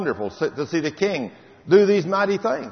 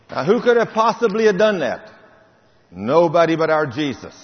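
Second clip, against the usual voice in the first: preaching climax; 3 semitones higher, 5 dB louder than usual. Acted.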